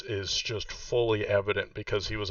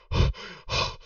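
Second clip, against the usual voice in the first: heavy breath. Acted. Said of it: "obviously breathing heavy".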